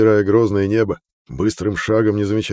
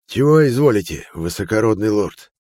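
shopkeeper voice; 3 semitones higher, 5 dB louder than usual. A narrator's reading. Shopkeeper greets the lord coldly.

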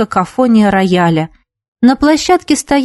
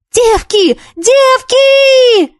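excited call; much slower than usual. A narrator's reading. Girl running down the corridor calling friends, excited. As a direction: shout for everyone with big news.

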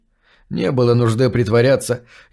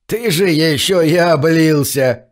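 put-on old prospector; 4 semitones higher than usual. A narrator's reading. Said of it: "хихикнул старик".

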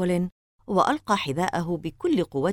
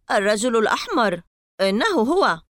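mysterious; 5 semitones higher, 5 dB louder than usual. Acted. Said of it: "قال بغموض".

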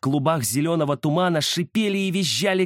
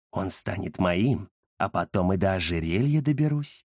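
lightly voiced greedy ghost; 7 semitones lower, 3 dB quieter than usual. Ghost claims the collar, low gloating. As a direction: muse greedily.

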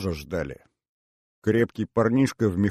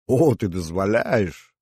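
amused mock gratitude; slower than usual. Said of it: "развлекался вице-консул".

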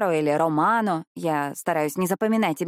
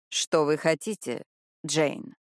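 slow question; 3 semitones lower, slower than usual. A narrator's reading. Detective on the phone asks Jane slowly, wary. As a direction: ask it carefully, weighing each word. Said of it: "медленно спросил мужчина".

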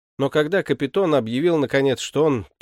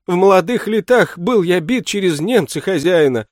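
usual speaking voice

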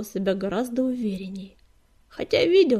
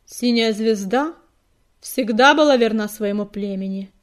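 calm; 5 dB louder than usual. A narrator's reading. Noble warrior defends his leader, calm. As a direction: state it steadily, unshaken. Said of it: "голос его прозвучал, как всегда, спокойно".

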